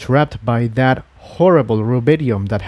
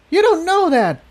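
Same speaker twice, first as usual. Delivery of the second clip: shout. Acted. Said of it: "Spike shouted".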